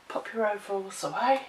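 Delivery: breathless from a chest infection; short of breath while talking. Real, not acted. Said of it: "Oh, I'm so out of breath".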